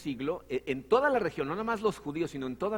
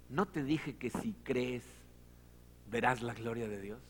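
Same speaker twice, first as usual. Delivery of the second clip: gentle rebuke; 4 semitones lower, 5 dB quieter than usual. Retold or imitated. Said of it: "fíjense lo que le dice Jesucristo".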